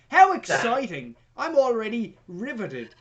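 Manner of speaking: gushing with heavy sarcasm; sarcastic excitement. Pretend. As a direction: feign being riveted by a dull plot. Sarcastic reaction to dull plot.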